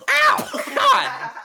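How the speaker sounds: loud, very high mock cry of pain; sharp upward yelp. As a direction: yelp as if hurt, shooting up high. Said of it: "like a big, sharp upward".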